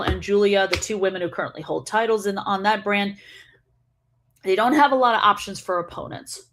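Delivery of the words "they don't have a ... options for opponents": talking around an ice cube; words slurred by ice in mouth. Real, not acted. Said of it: "Oh, Ice Cube got in there".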